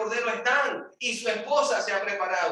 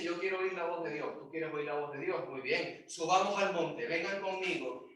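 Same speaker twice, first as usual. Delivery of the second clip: hushed invitation; 7 dB quieter than usual. Acted. Inviting people up Mount Sinai.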